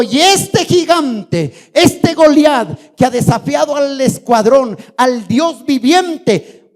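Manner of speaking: high, loud, drawn-out preacher's challenge; defiant declamation. Acted. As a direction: declaim it slowly as a bold challenge. David defies Goliath, preached dramatically. (desafío declamado con fuerza y fervor)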